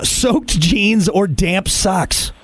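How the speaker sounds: slow question in a northern accent. Real, not acted. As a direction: let the northern accent slip out on "soaked jeans". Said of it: "That was my northern accent coming out".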